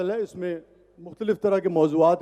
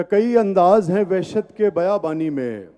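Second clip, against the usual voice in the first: tender romantic poetry. Acted. Recites ghazal at mushaira.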